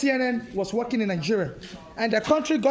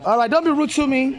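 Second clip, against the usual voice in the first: louder, sharp warning; angry at the clerk, a louder warning; real anger; 3 semitones higher, 4 dB louder than usual. Real, not acted. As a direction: tell him off, louder. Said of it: "I'm angry".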